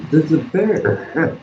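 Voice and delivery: slow, stunned warning; scared kid. Retold or imitated. Boy spotting the mother bear, slow and stunned. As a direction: draw it out in disbelief. Child whispering about bear.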